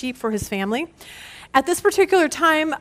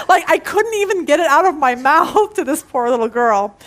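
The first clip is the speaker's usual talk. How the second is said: laughing; 2 semitones higher, 4 dB louder than usual. Retold or imitated. Dan retold laughing too hard.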